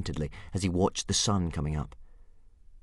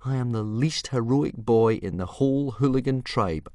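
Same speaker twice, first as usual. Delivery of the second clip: put-on glum boy; 7 semitones higher, 4 dB louder than usual. Hiccup voiced.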